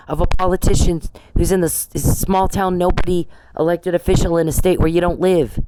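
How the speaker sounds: heated rant. Real, not acted. Angry rant at officers.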